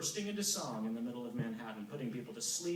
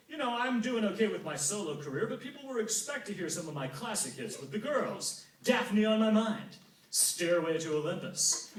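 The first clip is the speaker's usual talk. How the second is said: boastful Apollo; 4 semitones higher, 5 dB louder than usual. Acted.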